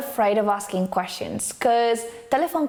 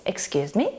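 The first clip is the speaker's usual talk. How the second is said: "Excuse me" starting low, rising at the end; rising intonation; 4 semitones lower than usual. Shown as a demonstration. Teacher demonstrating a polite request for repetition, rising intonation. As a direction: lift "me" into a polite question. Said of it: "our intonation rises".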